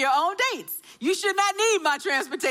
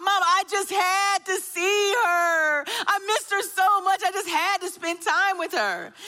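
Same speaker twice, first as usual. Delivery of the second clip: pleading son; 4 semitones higher than usual. Retold or imitated. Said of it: "that phrase that I talked about".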